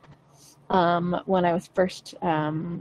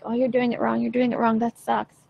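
gremlin voice; 3 semitones higher than usual. Retold or imitated. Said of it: "that gremlin voice".

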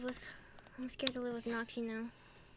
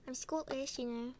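joking Scottish imitation; put-on Scottish accent. Friend joining the accent game, mock Scottish.

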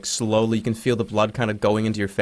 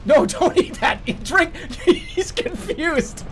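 high, giggling play-by-play; laughing commentary; 13 semitones higher, slower than usual. Real, not acted. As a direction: laugh through the words. Laughing at game.

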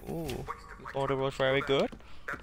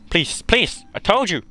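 loud, urgent begging; loud pleading; 3 semitones higher, 10 dB louder than usual. Pretend. Player begging the alien off, loud pleading. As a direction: beg loudly for mercy.

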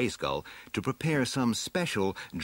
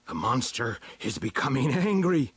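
higher-pitched, agitated village chief; 5 semitones higher than usual. Acted. Village chief explains to the heroes what happened, in a higher voice. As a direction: report the danger as a worried village chief.

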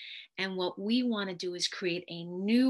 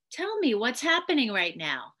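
calm curious question; 4 semitones higher, 5 dB louder than usual. Shown as a demonstration. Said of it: "see how you appear when you're asking a question".

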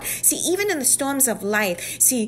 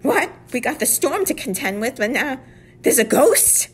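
disciples' shock; 3 semitones higher, 4 dB louder than usual. Retold or imitated. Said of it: "now you're just like".

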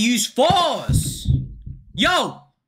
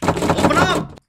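calling out; 9 semitones higher, 4 dB louder than usual. Real, not acted. Banging on a locked door.

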